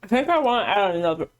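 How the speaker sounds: words mushed round a lollipop; sucking a lollipop. Real, not acted. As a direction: talk with a big lollipop in your mouth. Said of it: "Big ol' lollipop in my mouth".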